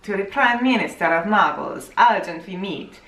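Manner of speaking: shaky attempt at a Russian accent; lightly faked Russian accent. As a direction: try to sound Russian. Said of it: "I'm trying to be Russian".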